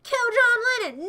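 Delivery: hammed-up shouted order. Second take, louder higher.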